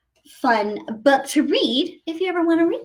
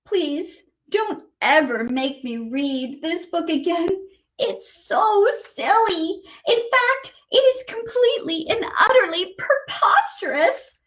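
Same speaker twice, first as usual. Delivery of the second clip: mock complaint; 3 semitones higher than usual. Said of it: "makes grown-ups have to say silly things".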